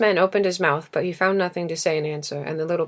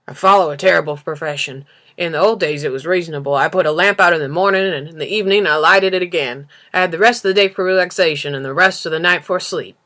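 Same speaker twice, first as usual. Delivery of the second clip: put-upon lamplighter pushing his complaint louder; weary lamplighter, louder; 6 dB louder than usual. Acted. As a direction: grumble about the job like an overworked man.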